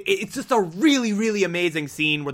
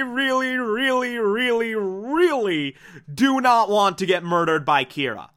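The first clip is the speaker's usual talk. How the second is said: mock-pleading Mello; 4 semitones higher than usual. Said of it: "and is like".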